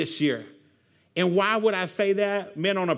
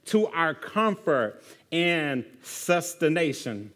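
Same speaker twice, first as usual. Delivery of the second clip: prayer reading; 2 semitones lower than usual. Acted. Pastor reading a table prayer aloud, slow and solemn. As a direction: pray it slowly and reverently.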